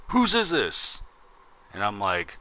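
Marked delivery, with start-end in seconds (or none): 0.1-1.0 high-pitched puzzled mock question; confused old man. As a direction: lightly imitate a baffled old man. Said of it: "looking around all confused".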